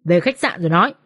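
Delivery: low, menacing command; growled order. Acted. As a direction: give the order through a restrained growl. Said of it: "Hưởng gằn giọng".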